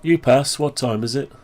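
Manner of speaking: voice command. Shown as a demonstration. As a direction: clear spoken query to the computer. Asking computer for time.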